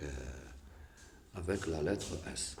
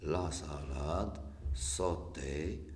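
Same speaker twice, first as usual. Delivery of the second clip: slow, measured word-by-word reading; much slower than usual. Shown as a demonstration. Teacher reading example words to learners, slow and deliberate. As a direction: read each example word out slowly. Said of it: "je lis les mots".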